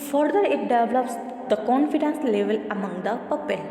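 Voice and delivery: measured, deliberate textbook read-aloud; steady classroom reading voice. Acted. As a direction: read the passage out evenly for the class. Reads textbook passage aloud.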